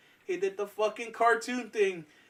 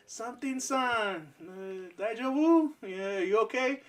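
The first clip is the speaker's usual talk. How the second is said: gentle teacher; 5 semitones higher, slower than usual. Retold or imitated. Teacher asking with Japanese word.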